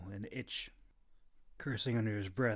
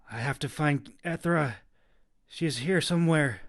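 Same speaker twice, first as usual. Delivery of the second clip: insisting; 4 semitones higher, 9 dB louder than usual. A narrator's reading. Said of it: "Kita insisted".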